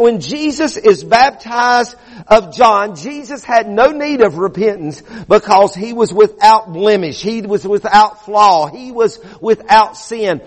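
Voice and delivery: emphatic, measured sermon delivery; preaching. Acted. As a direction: preach it firmly to the congregation. Preaches to a congregation.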